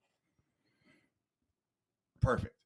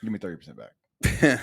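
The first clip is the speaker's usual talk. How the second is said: loud playful demand; shouting; 5 semitones lower, 11 dB louder than usual. Real, not acted. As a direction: shout it across the room. Bargaining, shouted.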